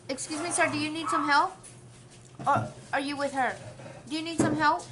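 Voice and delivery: high, loud, overly sweet clerk voice; mock the clerk's eager helpfulness to the husband; fawning store clerk. Clerk sucking up to her husband, high sweet mock voice.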